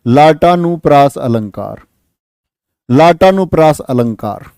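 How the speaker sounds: लाटानुप्रास as a single unbroken word; run together as one word. Shown as a demonstration. Teacher dictates the term to be written together, लाटानुप्रास joined as one word. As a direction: say लाटानुप्रास joined, with one long आ where लाटा meets अनुप्रास. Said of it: "एक साथ लिखना है इसको".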